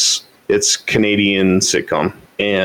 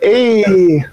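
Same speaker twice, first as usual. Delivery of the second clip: mock yelp; 10 semitones higher, 4 dB louder than usual. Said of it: "she's like".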